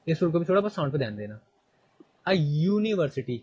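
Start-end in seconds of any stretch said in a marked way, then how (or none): 2.3-3.4 slow, deliberate reading of the example; slow classroom example. Shown as a demonstration. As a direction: read it out word by word for the class. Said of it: "क्या लिखा हुआ है?".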